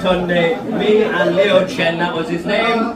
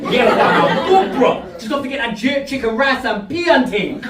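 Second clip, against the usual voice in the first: put-on bantering in a London street accent; 3 semitones higher than usual. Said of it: "they'll have that accent".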